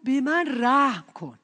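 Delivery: imitated calling out, a bit loud; retold cry for mercy. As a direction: draw out the beggar's plea.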